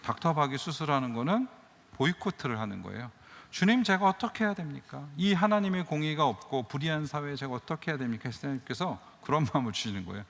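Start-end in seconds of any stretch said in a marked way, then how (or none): 3.5-8.2 higher, earnest cry to God; pleading prayer. Retold or imitated. Retold prayer of anguish. (하나님께 간절히 부르짖는 기도)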